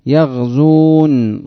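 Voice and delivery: يغزون stretched very slowly, syllable by syllable; drawn out slowly. Shown as a demonstration. Teacher to students, drawing out يغزون slowly. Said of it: "لما تقول يغزون".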